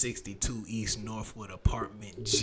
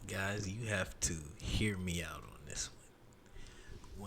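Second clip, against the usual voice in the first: slow conspiratorial whisper; 3 semitones lower, 9 dB quieter, slower than usual. Real, not acted. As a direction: lean in and whisper it. Confiding to the audience.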